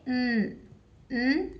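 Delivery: न hummed slowly with no vowel; slow nasal न sound; phonic N sound. Shown as a demonstration. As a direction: drag out न through the nose. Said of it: "पर आप इसे ऐसे बोलेंगे न".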